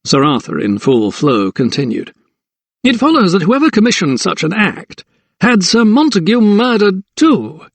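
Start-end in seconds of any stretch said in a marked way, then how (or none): 2.8-7.6 smug magistrate. A narrator's reading. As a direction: savour the words like a pleased magistrate. Magistrate's voice, Sir Arthur.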